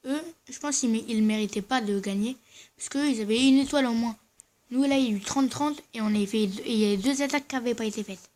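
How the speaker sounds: talking through dental braces; slightly slurred by a brace. Real, not acted. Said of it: "désolé si je parle un peu bizarrement, j'ai mon appareil dentaire".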